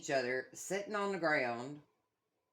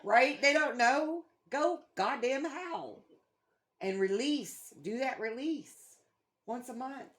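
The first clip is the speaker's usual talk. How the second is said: higher and louder, egging them on; rallying listeners, much higher and louder; excited urging; 8 semitones higher, 6 dB louder, slower than usual. Real, not acted. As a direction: pump them up to go howl.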